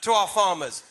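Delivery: put-on American accent on WATER, hard R at the end; playful switch into an American accent for "water". Shown as a demonstration. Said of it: "say it in an American accent".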